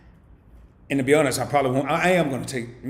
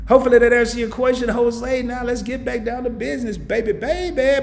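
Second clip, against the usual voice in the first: loud, high hype to get back to business; hyped wrap-up; 11 semitones higher, 8 dB louder than usual. Real, not acted. Host to viewer Jose, loud high hype. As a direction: pump up the stream again.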